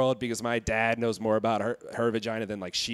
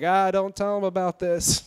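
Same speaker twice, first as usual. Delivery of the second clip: panicky plea; 6 semitones higher than usual. Retold or imitated.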